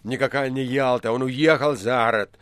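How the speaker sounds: mildly excited, emphatic; lightly agitated exclamation; excited shout. A narrator's reading. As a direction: insist with growing excitement. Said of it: "возбуждённо кричал администратор".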